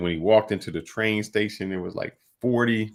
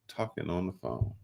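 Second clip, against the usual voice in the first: soft, deflated, worn-out repeat; weary repeat; 10 dB quieter than usual. Real, not acted. Host repeating the phone complaint to cohost, quiet and defeated. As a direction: let it sag, exhausted.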